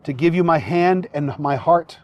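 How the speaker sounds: officiant feeding vows phrase by phrase; short phrases with pauses. Shown as a demonstration. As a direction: say each phrase, then pause for the repeat. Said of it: "repeat phrase by phrase after me".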